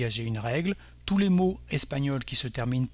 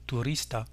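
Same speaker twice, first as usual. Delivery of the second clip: turista stressed on RIS; Spanish turista with the accent on "ris"; stress on second-to-last syllable; 4 dB quieter than usual. Shown as a demonstration. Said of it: "On accentuera donc l'avant-dernière syllabe".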